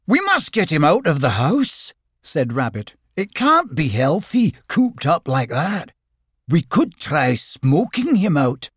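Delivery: high, busy, planning voice; bossy Rabbit. Acted. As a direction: take charge like a fussy rabbit.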